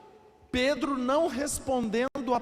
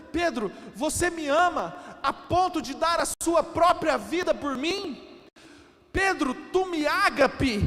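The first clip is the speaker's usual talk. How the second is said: raised, pleading voice, near a shout; impassioned plea; 5 semitones higher, 4 dB louder than usual. Acted. Preacher voicing Jesus asking Peter, impassioned and loud. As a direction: press the question hard, almost shouting.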